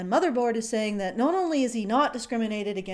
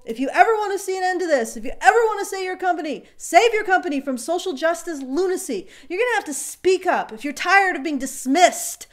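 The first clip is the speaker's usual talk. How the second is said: mock rousing speech; 3 semitones higher than usual. Rousing call to speak up.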